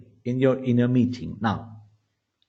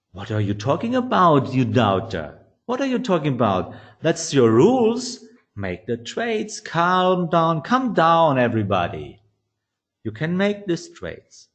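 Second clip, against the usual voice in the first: lightly acted remonstrating voice; reasonable intermediary; 3 semitones higher than usual. Intermediary telling the inner meeting to calm down, mildly insistent. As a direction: cut in on the doubter, then settle everyone. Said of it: "the reasonable intermediary, says".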